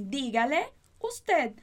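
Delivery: dígale usted said slowly, syllable by syllable; careful teacher model; slow demo. Shown as a demonstration. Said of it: "se você lembrar daquela estrutura".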